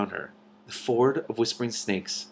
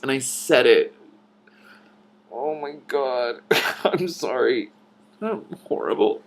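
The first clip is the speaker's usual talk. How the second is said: laughing apology; 4 semitones higher, slower than usual. Real, not acted. Reader apologizes while laughing.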